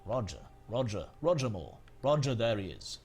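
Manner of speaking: a light attempt at Roger Moore; Roger Moore impression. Streamer retrying Roger Moore, lightly voiced. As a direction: keep trying the suave Bond voice. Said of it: "I'm working on my Roger Moore impression".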